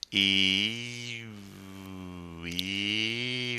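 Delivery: E sliding into French U, lips rounding; French U demo. Shown as a demonstration. Teacher drills French U for students, soft and exaggerated. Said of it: "Keep that E sound going and make an U".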